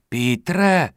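indignant rebuke. Acted. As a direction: scold him, shocked at his manners. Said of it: "okřikla ho matka pohoršeně".

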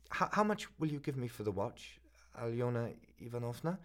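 put-on a flustered young man begging for time; student pleading with the pawnbroker, a lightly voiced hurried stammer.

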